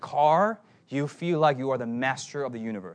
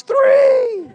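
high, loud yell; shouted count; 13 dB louder than usual. Retold or imitated. Preacher mimics the kid yelling his count. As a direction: bark the number out like the kid.

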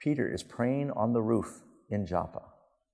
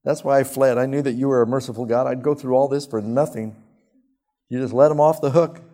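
loud, bitter complaint to God; angry prayer; 4 semitones higher, 8 dB louder than usual. Acted. Jonah complaining loudly to God over Nineveh, angry prayer. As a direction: Jonah railing at the Lord for sparing them. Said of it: "And he prays".

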